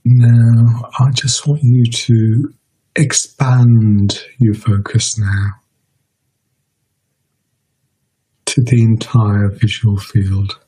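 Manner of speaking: measured meditation guidance with long pauses; guided meditation. Real, not acted. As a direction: guide listeners unhurriedly, leaving space between phrases.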